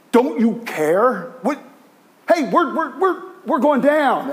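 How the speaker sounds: high, pleading cry of sinking sailors; mock panicked yelling. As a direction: plead like men going under. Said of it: "And they're yelling".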